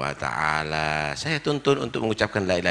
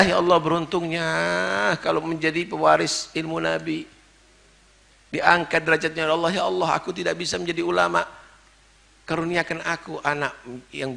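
mock tearful prayer; 9 semitones higher, 3 dB louder than usual. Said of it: "nangis dia".

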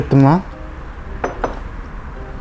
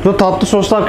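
ordinary talk

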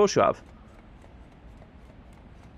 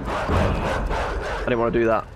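whispered; 3 semitones lower, much slower than usual. Real, not acted. Mistake in game.

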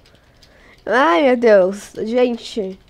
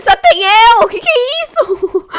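shocked shriek; 12 semitones higher than usual. Real, not acted. To her viewers, finding herself alone in the lobby, shocked shriek. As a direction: squeal it out like everyone just left you.

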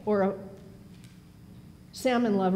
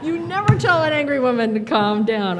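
emphatic warning; 6 semitones higher, 6 dB louder than usual. Real, not acted. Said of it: "I just wanna say".

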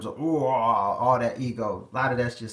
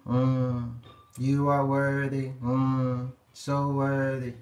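slow, lightly voiced adoring suitor; bowing to the queen with slow reverence; adoring man; much slower than usual. Man to a confident woman, slow and adoring. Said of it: "they gotta bow to the queen".

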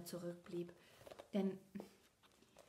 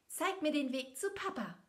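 pleading; 7 semitones higher, 5 dB louder than usual. A narrator's reading. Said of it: "bat sie das Pferd".

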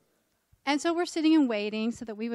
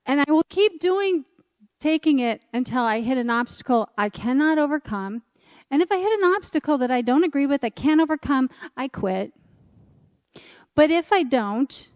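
insistent; 2 semitones higher, 6 dB louder than usual. Retold or imitated. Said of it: "he called the office and he said".

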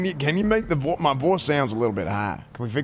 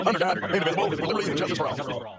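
pledge; 4 semitones higher than usual. Acted. Recites pledges of allegiance.

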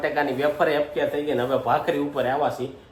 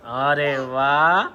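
drawn-out praise; much slower than usual. Real, not acted. Father praises baby for clapping.

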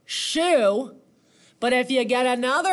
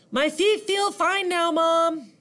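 high-pitched, cheerful little centipede; high kid-character voice; 8 semitones higher than usual. A narrator's reading. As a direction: voice a small bug child telling Mom. Child centipede talking to mom.

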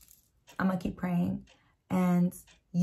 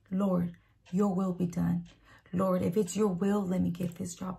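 sample prayer. Shown as a demonstration. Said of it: "pray that".

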